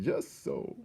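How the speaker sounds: breathed quietly with a smile; soft smiling whisper. A narrator's reading. Threadmaster repeating it to himself, soft whispered contentment.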